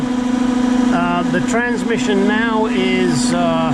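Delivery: strained voice from under a car; lying under a car. Real, not acted. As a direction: talk flat on your back under a car. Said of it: "so now I'm under the car".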